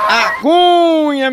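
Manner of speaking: high, slow, laughing call of A Cunha; sung-out catchphrase; drawn-out catchphrase call. Real, not acted. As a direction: stretch the name out high with a laugh. Catchphrase called out.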